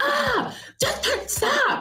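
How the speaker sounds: shouted voice. Retelling how she suddenly told them to stop: imitating her yelling. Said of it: "yelled at me out of nowhere".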